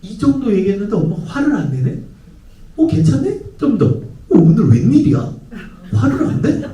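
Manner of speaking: put-on cautious child testing. Child surprised mom isn't angry, pleased. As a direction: test the waters, then brighten. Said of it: "그러면서 체크하는 거예요".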